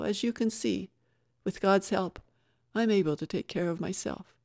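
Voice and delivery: a touch of plucky self-reliance; self-assured Dimple, reassuring. Acted.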